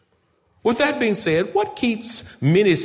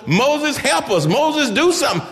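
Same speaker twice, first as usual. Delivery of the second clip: pleading people crying out, much higher; 11 semitones higher, 4 dB louder than usual. Acted. Israel crying out to Moses for help, high and pleading. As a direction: cry to Moses for rescue in a high desperate call. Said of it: "they're crying out to Moses".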